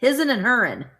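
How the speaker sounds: country Southern twang on HIS'N and HER'N; Southern dialect. Acted. Repeating the label for viewers, Southern dialect. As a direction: give it a folksy Southern lilt. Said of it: "They are not Southern".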